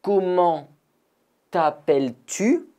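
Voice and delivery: Comment t'appelles-tu? pitched high, rising; questioning model. Shown as a demonstration. Teacher asks the class their name, high and rising. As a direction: ask the name warmly, lift at the end.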